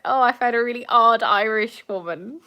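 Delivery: "odd" given extra emphasis; stress on odd. Acted. Boyfriend introducing her to his parents, stress on "odd". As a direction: lean on the word "odd". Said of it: "Emphasis on odd".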